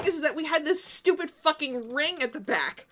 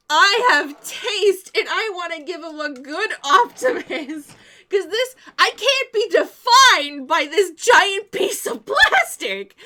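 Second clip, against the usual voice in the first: laughing protest; 3 semitones higher, 5 dB louder, slower than usual. Retold or imitated. Girlfriend to boyfriend, insisting on her taste, laughing protest. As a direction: plead your good taste through laughter.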